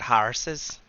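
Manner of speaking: "horses" as Irish "HAR-suz"; Irish-accented "horses", with an ah vowel. Shown as a demonstration. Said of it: "when you start an Irish accent".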